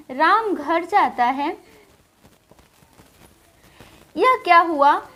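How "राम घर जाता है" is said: slow example read. Shown as a demonstration. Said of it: "जैसे हमने एक वाक्य लिखा".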